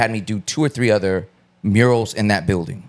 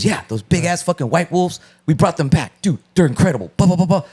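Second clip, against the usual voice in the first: excited retelling; 8 semitones higher than usual. Retold or imitated. Excited client retelling dire wolf.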